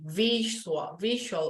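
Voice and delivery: "visual" with a clear voiced V against the teeth; clear V sound. Shown as a demonstration. Teacher drilling the V sound for students. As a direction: press the V in "visual". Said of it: "the V sound".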